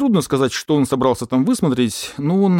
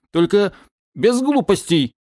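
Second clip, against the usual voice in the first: porcupine voice; 8 semitones higher, slower than usual. Acted. Porcupine threatens with pistol.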